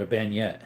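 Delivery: bayonet said as "ban-yet"; own pronunciation. Shown as a demonstration. Streamer answering how he says the word, bayonet as "ban-yet". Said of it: "That's what I call it".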